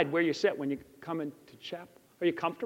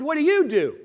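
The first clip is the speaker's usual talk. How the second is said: innocent question; 7 semitones higher, 5 dB louder than usual. Retold or imitated. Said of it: "very innocently".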